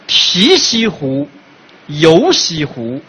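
drawn-out chanting of a couplet; slow recitation. Pretend. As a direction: recite it slowly like a poem. 慢悠悠念上联. (慢悠悠吟诵对联)

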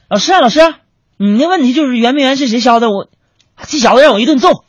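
high, loud eager report to the teacher; eager dad on the phone. Retold or imitated. Dad calling the teacher back, loud and eager. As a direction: proudly tell the teacher the case is solved.

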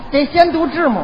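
字母 said with Dongbei tones; Northeast pronunciation. Acted. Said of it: "应该说字母".

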